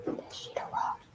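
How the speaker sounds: barely audible, hushed whisper. Acted. Fan whispering about a podcast host seen in a restaurant, whispered. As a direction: whisper it like you don't want to be caught. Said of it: "Why you whispering".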